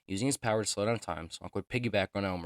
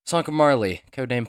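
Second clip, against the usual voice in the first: dramatic announcement; 5 semitones higher, 11 dB louder than usual. Acted. Dramatic reenactment name announcement.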